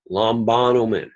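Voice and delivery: "Lambanomen" accented on "ba", third syllable from the end; antepenult stress. Shown as a demonstration. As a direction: punch the "ba" in "Lambanomen". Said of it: "Say the words with me".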